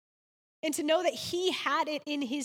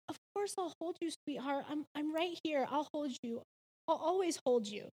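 soothing mother; 5 dB quieter than usual. Retold or imitated. Mother comforting crying son.

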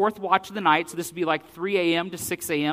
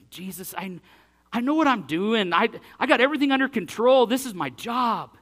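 louder, higher protest, last line slowed; defensive Peter; 6 semitones higher, 4 dB louder than usual. Retold or imitated. Preacher voicing Peter protesting to Jesus, raised and defensive. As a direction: insist you know your job.

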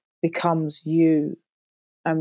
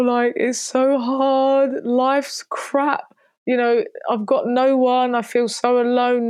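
imitating a tearful inner voice, higher and louder; retold despairing self-talk; 6 semitones higher, 4 dB louder than usual. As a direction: replay the desperate thoughts from a hard night, pitched up and pleading. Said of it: "where you might be crying and being like".

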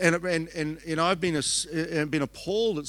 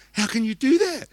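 higher, louder indignant demand; mad pastor; 9 semitones higher, 6 dB louder than usual. Retold or imitated. Angry pastor confronting the preacher after jokes, raised demand. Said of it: "the pastor was so mad with me".

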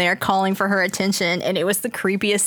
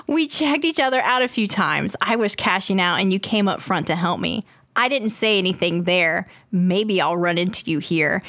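creepy poster voice; 2 semitones lower than usual. Acted. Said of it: "I always read 'em in this voice".

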